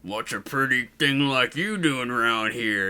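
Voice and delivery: slow, drawn-out redneck leer; hammed-up redneck thug; redneck bully. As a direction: play a creepy redneck bully sizing someone up. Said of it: "Two redneck bullies get out".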